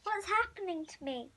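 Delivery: frightened hushed whisper; scared whisper. Acted. Kid alone in a strange drawing, whispering scared.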